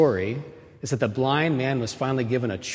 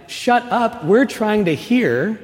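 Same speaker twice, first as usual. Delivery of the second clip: irritated hush; 8 semitones higher, 4 dB louder, slower than usual. Acted. Crowd man silencing the blind man.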